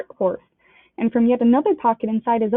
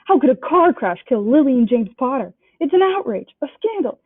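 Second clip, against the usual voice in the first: Hagrid louder and higher in outrage; a mildly roaring angry giant; outraged roar; 4 semitones higher, 4 dB louder than usual. Acted. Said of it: "jumping up so angrily".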